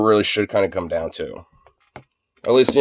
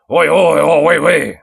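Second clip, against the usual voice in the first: mock British; 6 semitones higher, 5 dB louder than usual.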